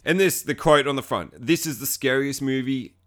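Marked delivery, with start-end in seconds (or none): 1.4-2.9 slow, emphatic pronouncement; Comic Book Guy. Retold or imitated. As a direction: deliver a pompous verdict, pausing before the last word. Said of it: "Thanks, comic book guy".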